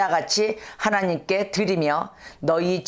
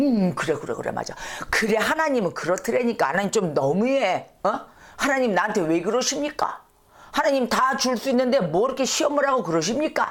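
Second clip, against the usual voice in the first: aggrieved, grumbling, complaining put-on woman's voice; 4 semitones higher than usual. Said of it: "이렇게 이제 나오는 거예요".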